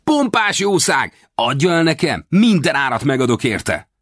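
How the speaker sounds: put-on boy eagerly begging to buy the mustang; enthusiastic cry. A narrator's reading. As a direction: gush over the horse, desperate to buy it. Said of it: "lelkesen felkiáltott".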